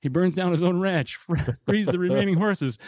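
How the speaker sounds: a brisk trailer-style movie recap over music; hammed-up one-minute plot summary read; movie synopsis narration. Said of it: "my oral synopsis of Chino in one minute or less".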